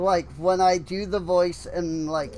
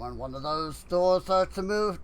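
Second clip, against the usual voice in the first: side-mouth voice. Acted. Reading out the game's tip about falling doors in a side-mouth voice. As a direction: talk out of the side of your mouth. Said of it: "side mouth talking".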